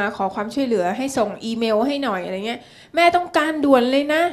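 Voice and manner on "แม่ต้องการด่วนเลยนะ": higher, louder demanding mom; urgent mother. Retold or imitated. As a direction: press like mom in a hurry. Daughter voices urgent mother. (ลูกสาวเลียนเสียงแม่เร่งด่วน สูงและดังขึ้น)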